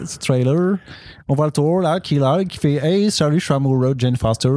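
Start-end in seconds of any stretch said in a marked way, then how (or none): 1.3-4.5 hammy fake Quebec French; badly faked Québécois delivery; put-on Quebec accent. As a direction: recap the trailer as a mock Québécois. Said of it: "l'accent de Québec".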